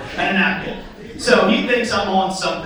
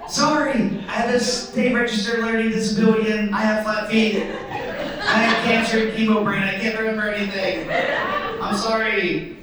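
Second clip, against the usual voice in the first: mock-pitiful apology, higher at the start; pleading excuses; 4 semitones higher than usual. Driver apologising to exasperated officer, pleading. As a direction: pile up excuses in a hammed-up plea.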